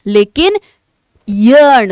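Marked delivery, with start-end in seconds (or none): 1.3-1.9 यर्न with a clear initial Y glide; Y at start. Shown as a demonstration. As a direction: open यर्न on a Y, as a teacher models it. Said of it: "वाई से start हो रहा है". (यर्न, य से शुरू करके)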